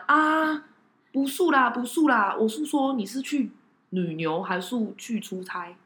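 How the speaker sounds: put-on lightly Taiwanese-accented Mandarin. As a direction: imitate the driver's accent. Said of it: "台湾国语".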